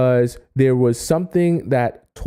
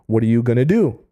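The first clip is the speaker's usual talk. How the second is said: normal talking voice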